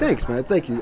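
ordinary talk, nothing marked

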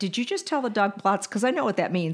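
ordinary talk

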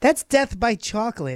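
play-acted sunny tone. Retelling what the server said about a donut, imitating a smiling server. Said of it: "she says it with such a smile on her face".

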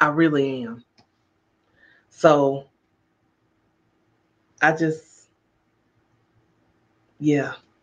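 fighting back tears. Speaking to listeners mid-session, fighting back tears. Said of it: "I'm fighting back tears right now".

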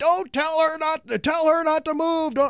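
put-on, acted-out, very high-pitched yelling. Retelling a crash scene where a nurse yelled at them: imitating a nurse yelling. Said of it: "this nurse is yelling at me".

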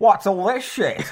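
put-on Australian accent. Imitating a heckling audience member: Australian accent. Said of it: "naughty Australian men".

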